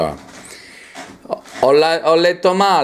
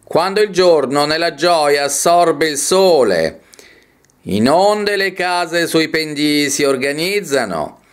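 slow, measured poetry reading; poem recitation. Acted. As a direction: declaim each phrase, lingering on the stressed vowels. Reads a poem aloud.

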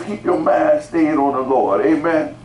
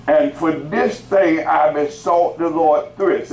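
scripture reading; 3 semitones higher, slower than usual. Real, not acted. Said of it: "let's read what it said".

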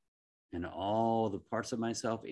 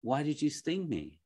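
shocked dying frog; 6 semitones higher than usual. Acted. Dying frog cries out at the scorpion, high and shocked. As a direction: cry out betrayed, much higher. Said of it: "And he says".

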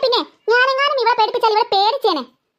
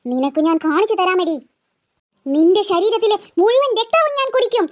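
low, threatening vampire-ghost voice; menacing ghost; 4 semitones lower than usual. Acted. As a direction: growl out the blood threat low. Ghost threatens to drink blood.

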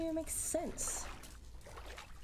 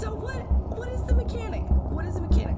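exasperated near-shout, higher pitch; frustrated loud; 11 semitones higher, 13 dB louder, faster than usual. Real, not acted. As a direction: demand an answer from the game, loud and fed up. Frustrated after being caught.

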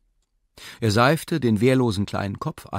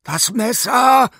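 much higher, louder and slow shout; scream; 13 semitones higher, 9 dB louder, slower than usual. Acted. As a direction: yell for the knife. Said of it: "schrie Philipp Philippowitsch".

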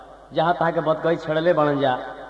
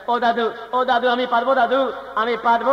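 desperate Bengali plea, pitched up; Bengali accent in Hindi; 6 semitones higher than usual. Acted. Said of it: "फिर बंगाली भाई बोलता है".

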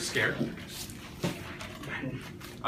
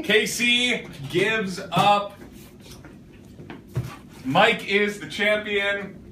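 sports commentator calling a live contest; play-by-play commentary; 3 semitones higher than usual. Acted. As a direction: call it like a live match, building. Counts the marshmallow challenge live.

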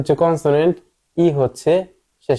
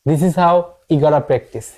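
slow model sentence; much slower than usual. Shown as a demonstration. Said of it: "এইভাবে আপনাদের practice করতে হবে".

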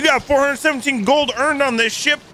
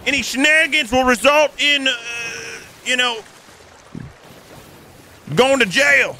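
raised, official lawman voice stopping a ship; mock sheriff; 3 semitones higher than usual. Sheriff hails a pirate ship: hammed-up lawman voice. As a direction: play the small-town sheriff hailing a boat. Sheriff orders guns away.

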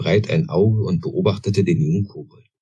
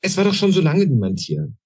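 much higher, urgent little-goblin questions; eager young goblin; 11 semitones higher than usual. A narrator's reading. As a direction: press him hard for an answer. Goblin doubts. (viel höher, drängender kleiner Kobold)

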